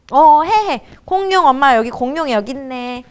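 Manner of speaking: loud, offhand go-ahead; distracted playing parent. Parent not really playing dinosaurs with child, offhand. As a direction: wave the child on while busy. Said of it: "하면 안 된다는 거죠".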